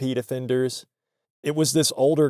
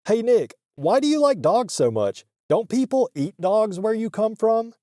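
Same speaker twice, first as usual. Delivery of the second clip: higher-pitched imitation of a clueless stoner; stoner guy; 8 semitones higher than usual. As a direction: needle him in a goofy stoner voice. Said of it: "this metalhead stoner guy".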